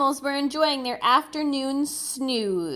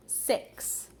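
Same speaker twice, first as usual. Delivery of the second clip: whisper; 10 dB quieter than usual. Acted. Counting the singers.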